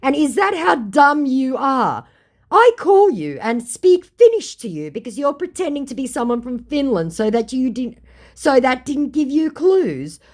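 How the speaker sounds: mock-furious comeback; retold angry reply. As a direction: scold him for being dumb. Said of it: "I said".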